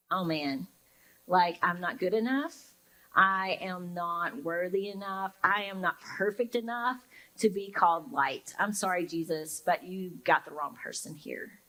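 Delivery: defeated. Retold or imitated. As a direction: sigh it out like you're not good enough. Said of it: "you feel defeated".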